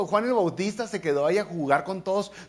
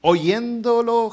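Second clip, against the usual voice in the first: loud call; 7 semitones higher, 8 dB louder, much slower than usual. Real, not acted. Preacher opening the verse reading.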